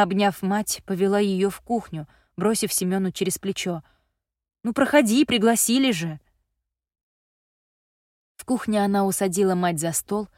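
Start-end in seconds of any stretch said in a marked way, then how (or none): 4.6-6.2 sulky. Acted. Sulky girl over her shoulder.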